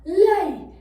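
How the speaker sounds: loud, high growled command from the giant; giant's growl. Acted. The giant demands that the hen lay an egg, growling loudly. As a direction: bark it like a greedy giant. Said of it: "The giant poked the hen and growled".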